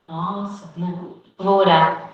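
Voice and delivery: slow, offhand "vou orar" said as a brush-off; vague promise to pray. Shown as a demonstration. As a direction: put it off lazily, "não, vou orar". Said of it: "Não, vamos orar agora".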